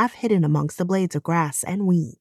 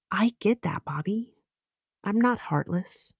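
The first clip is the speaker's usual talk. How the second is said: soft, breathy near-whisper; almost whispering to him, pained; hushed plea; 3 semitones higher, 7 dB quieter than usual. Acted. Maddie quietly pleading with angry Bobby, hushed.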